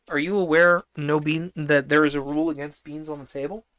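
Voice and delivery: loud playful scolding. Real, not acted. Scolding child on table.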